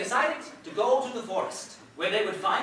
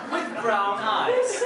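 laughing; 3 semitones higher, 4 dB louder, much slower than usual. Real, not acted. Slow laughing punchline.

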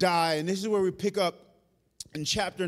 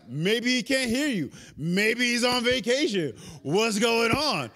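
higher-pitched mocking speculation; cocky taunt; 3 semitones higher than usual. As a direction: tease them, stretching the last question. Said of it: "he's getting cocky".

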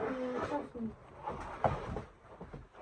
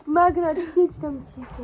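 loud scolding; 10 dB louder, slower than usual. Real, not acted. Shushing sister loudly.

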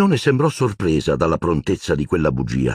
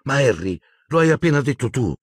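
snapping back; 7 semitones higher than usual. A narrator's reading. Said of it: "sbottò Hermione".

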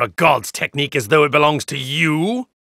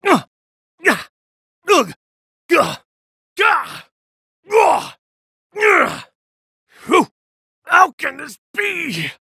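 stunned disbelief; 13 semitones higher, 4 dB louder than usual. Acted. Defeated, struggling.

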